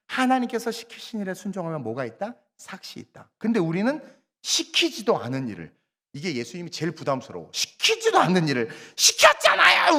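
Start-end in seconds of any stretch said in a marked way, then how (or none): 2.6-3.3 hushed, breathy reveal; whispered punchline. Acted. Dramatic payoff in sermon. 7.5-10.0 mock indignant believer, higher and louder; hammed-up protest, higher and louder; insisting believer. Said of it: "우기면서".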